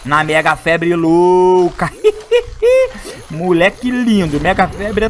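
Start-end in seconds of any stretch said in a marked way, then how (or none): 0.0-1.9 slow, stretched hype; excited drawl. Real, not acted. Hyped gameplay moment. 2.0-3.2 high-pitched giggle burst; squeaky laugh. Real, not acted. Laugh at hype moment.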